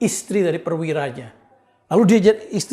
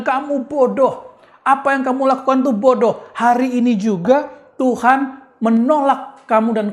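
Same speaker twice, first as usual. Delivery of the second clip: retold angry rebuke; 3 semitones higher than usual. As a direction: scold in a retelling, pitched up, not shouted. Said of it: "marahnya bener-bener malah marah gila-gilaan". (menirukan teguran marah dengan nada lebih tinggi)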